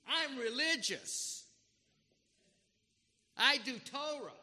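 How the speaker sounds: loud indignant complaint, voice rising; angry older son. Acted. Older son complaining bitterly to his father, loud and indignant. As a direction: rail at the father like a resentful son.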